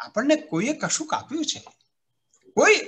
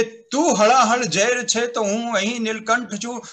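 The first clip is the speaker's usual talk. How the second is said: poem recital; 2 semitones higher than usual. Shown as a demonstration. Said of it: "મેં ચાર પંક્તિ લખી કે".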